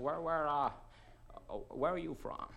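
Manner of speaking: mild American tourist voice; a hint of a puzzled Yank; lightly voiced American asking; American accent. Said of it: "I apologise for the American accent".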